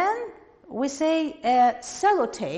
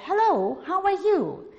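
lightly acted greeting, higher and louder; greeting a friend; 7 semitones higher, 5 dB louder than usual. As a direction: greet a friend in England, pitched up. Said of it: "or you will say".

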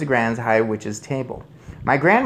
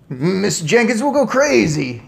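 high, loud wail; panicked yell; 9 semitones higher, 7 dB louder than usual. A narrator's reading. Father fears his wife's reaction, yelling. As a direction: yell it in alarm. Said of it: "yelled Mister Jenkins".

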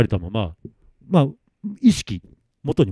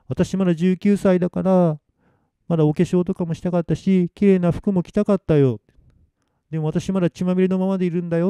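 tearful Noriko; 5 semitones higher than usual. Acted. Dead Noriko lamenting her bloody clothes, tearful. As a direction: lament sweetly, on the edge of tears. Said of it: "涙声になってるんです".

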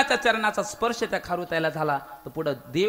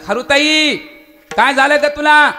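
higher, louder caring king's voice; loud, high-pitched Rama consoling a squirrel; Rama asking the squirrel; 6 semitones higher, 11 dB louder than usual. Acted. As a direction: call out to the hurt squirrel with concern. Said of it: "म्हणू लागले".

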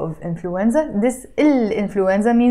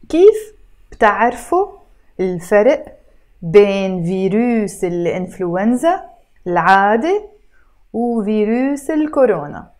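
word by word with pauses between; read slower; faster than usual. Shown as a demonstration. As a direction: break the question into separate careful words. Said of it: "now I'm gonna try to read it slower".

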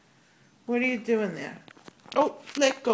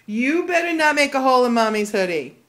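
louder playful warning to the pet; louder teasing reprimand over the hoodie; mock scolding; 3 semitones higher, 6 dB louder than usual. Real, not acted. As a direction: scold the pet, half joking.

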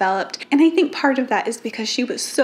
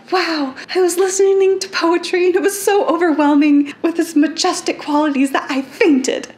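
swooning romantic; 6 semitones higher, 3 dB louder than usual. Retold or imitated. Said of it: "Literally, like".

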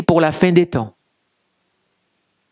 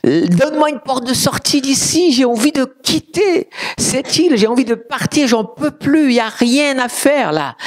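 high-pitched retold plea; imitated fed-up prayer, pitched up; pleading complaint to God; 7 semitones higher than usual. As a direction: plead for a way out, acting it out. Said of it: "moi, je disais à Dieu".

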